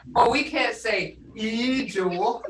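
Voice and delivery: Ijo said slowly to show it is wrong here; slow down to show the wrong vowel; teacher contrasts Ikana with Ijo; slow contrast demo. Shown as a demonstration. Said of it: "See how that changes that".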